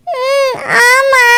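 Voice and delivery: slow, tearful hum of agreement. Acted. Upset girl tearfully agreeing with her friend, crying. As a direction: answer through tears.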